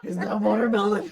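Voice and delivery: laughing. Real, not acted. Laughing question.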